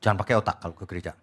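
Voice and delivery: mock church leader. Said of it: "dikatain gini".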